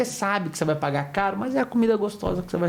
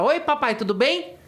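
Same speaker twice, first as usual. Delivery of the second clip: put-on cheerful little girl; 5 semitones higher, slower than usual. Cheerful little daughter voiced.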